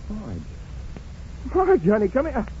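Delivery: soft, then rising in amazed disbelief; awed realization, voice climbing; stunned discovery. Acted. Husband finding the baby clothes, calling his wife in awe.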